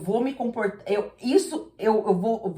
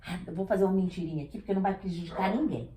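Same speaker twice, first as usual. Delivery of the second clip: sly inner voice; 5 semitones lower, 6 dB quieter, much faster than usual. Retold or imitated. Liar's inner voice acted.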